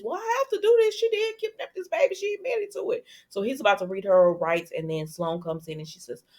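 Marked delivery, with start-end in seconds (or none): 0.0-3.0 much higher put-on cop voice, insisting; mock Rafe, stern cop. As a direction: play the cop who has no choice, voiced up high. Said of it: "And he says".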